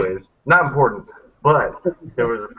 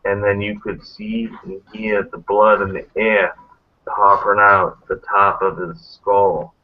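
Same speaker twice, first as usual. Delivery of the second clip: creepy guy voice. Retold or imitated. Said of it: "this creepy guy going like this".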